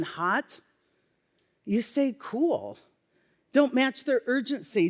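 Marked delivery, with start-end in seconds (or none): 2.2-2.8 unhurried, unbothered calm; calm and cool. Shown as a demonstration. Leader answering an upset person, calm and cool. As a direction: answer heat with easy coolness. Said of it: "You need to stay calm, cool, and collected".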